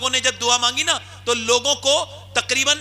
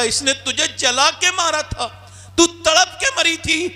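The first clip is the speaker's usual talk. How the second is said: slow emphatic reminder; 8 semitones higher, slower than usual. Acted. God reminds mother of her death.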